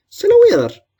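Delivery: sudden high yell on the throw; effort yell. Acted. Child throwing cheese to monsters, yelling. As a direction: shout it out as you heave it.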